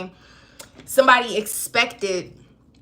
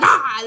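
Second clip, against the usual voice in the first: loud sudden "ah" as a cat; cat's warning cry; 2 semitones higher, 7 dB louder than usual. Acted. Cat to someone reaching for it, loud warning cry. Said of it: "this is like a cat speaking".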